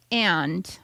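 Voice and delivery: "and" said with a stretched vowel; imitated funny "and". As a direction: mimic her two-syllable "and". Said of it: "but it's a funny, she says".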